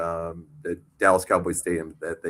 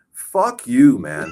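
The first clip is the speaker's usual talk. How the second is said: mock angry retort; 3 semitones higher, 8 dB louder, much slower than usual. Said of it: "I'm like".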